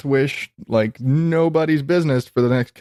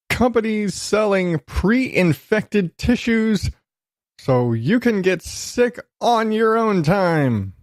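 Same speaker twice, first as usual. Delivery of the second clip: laughing in disbelief; 7 semitones higher, slower than usual. Real, not acted. Reading gross headline, laughing.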